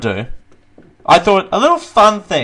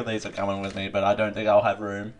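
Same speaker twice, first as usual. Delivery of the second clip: quiet; 5 semitones lower, 8 dB quieter than usual. Real, not acted. Aside muttered.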